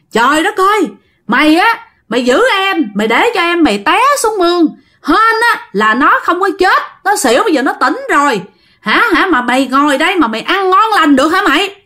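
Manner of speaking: giọng cao, mắng dồn dập như người lớn rầy cháu; kể lại trận chửi bằng giọng cao. Retold or imitated. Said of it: "ông bà cố chửi tiếp". (giả giọng ông bà mắng cháu)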